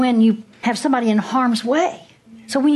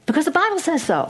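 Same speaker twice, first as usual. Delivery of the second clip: emphatic declaration; 7 semitones higher, faster than usual. Real, not acted. Preacher emphatic punchline.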